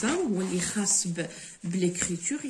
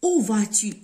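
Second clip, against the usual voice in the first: « Où » said louder, as a question; où stressed; 5 dB louder than usual. Shown as a demonstration. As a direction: punch the word où. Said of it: "avec accent, il indique un lieu". (insiste sur « où »)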